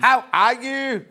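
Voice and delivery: slow, loud Northern Irish accent. Shown as a demonstration. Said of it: "Go on".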